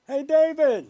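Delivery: loud, high telethon plug shouted upward; announcer call-out. Retold or imitated. Host shouting a telethon plug to the jumper, loud announcer call. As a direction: pitch it like a TV promo up the building. Calling up to man on ledge.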